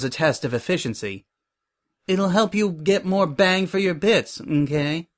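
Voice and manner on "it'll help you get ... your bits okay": higher, put-on chirpy salesy voice; glib Suri voice. A narrator's reading. Suri justifies making the intern pay, glib and high. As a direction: pitch the excuse up high and breezy.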